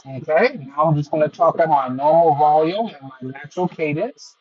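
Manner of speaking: bluetooth headset mic. Real, not acted. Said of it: "this is an idea of how the microphones on the C M F Buds Pro two perform in a crowdy or simulated noisy or crowdy environment".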